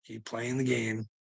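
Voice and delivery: quiet menacing repeat to the watchers; quiet slow warning. Real, not acted.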